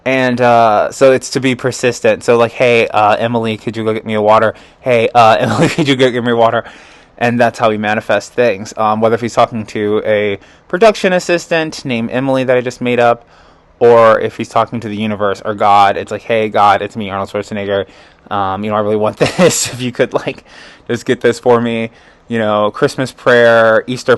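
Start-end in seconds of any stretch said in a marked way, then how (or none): 2.5-6.6 Arnold impression. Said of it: "That's my Arnold Schwarzenegger impression". 16.2-21.9 Arnold impression. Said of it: "That's my Arnold Schwarzenegger impression".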